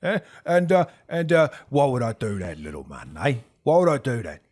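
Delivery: loud, incredulous gang boss; a little shocked. Acted. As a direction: challenge the upstart in mild disbelief. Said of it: "he's a little shocked at your brazenness".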